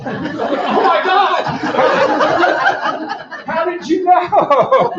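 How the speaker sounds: very high, slow, laughing amazement; amazed disbelief. Retold or imitated. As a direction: gasp it out, astonished. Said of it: "he thought I was a psychic".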